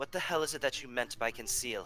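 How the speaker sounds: rather stern, severe tone. Game master voices a woman following the player's character out, in a rather stern tone. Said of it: "in a rather stern tone".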